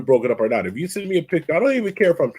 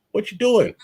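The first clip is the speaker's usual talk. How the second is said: raised, disbelieving repeat; incredulous bro; 7 semitones higher than usual. Retold or imitated. Friend asking a buddy why he's dating her, high disbelief. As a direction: ask it again in higher disbelief. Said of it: "I would tell somebody".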